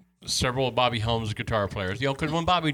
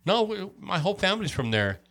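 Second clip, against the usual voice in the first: Appalachian twang; 8 semitones higher than usual. Retold or imitated. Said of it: "talk like they're from the Appalachian Mountains".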